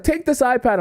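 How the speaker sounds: high, insistent mock call; mock yelling. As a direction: push it on strangers, high-pitched. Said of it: "and I'm yelling".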